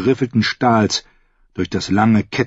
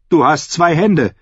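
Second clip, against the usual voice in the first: raised, higher-pitched rebuttal; stern retort; 8 semitones higher, 3 dB louder than usual. A narrator's reading. Brienne answers the fool's excuse, stern retort. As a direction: cut off his excuse firmly.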